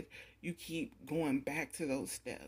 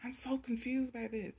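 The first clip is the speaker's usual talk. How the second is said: higher, puzzled mock outburst voicing them; voicing their baffled frustration, pitched up; confused exasperation; 6 semitones higher than usual. Spirits voicing confusion about the querent, pitched-up exasperation. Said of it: "they are just like".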